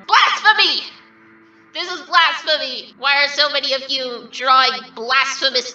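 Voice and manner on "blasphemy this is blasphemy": hammed-up indignant shout; mock outrage. Outraged at fan drawings.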